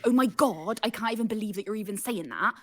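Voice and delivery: put-on over-the-top Bristol accent; a hammed-up Bristolian character; deliberately awful Bristolian accent; exaggerated Bristolian. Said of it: "proper, like, exaggerated".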